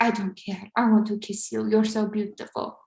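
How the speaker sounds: lightly imitated Albanian accent; insistent suitor with a hint of Albanian accent. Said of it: "I'm just trying to do his cute accent".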